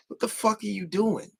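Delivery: high disbelieving outburst; high mock-outraged question; incredulous. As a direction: ask it like you can't believe it. Reacting to cringy video.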